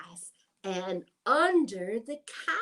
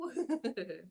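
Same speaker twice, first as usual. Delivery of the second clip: rooster crow; 8 dB quieter, much faster than usual. Pretend. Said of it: "and he says".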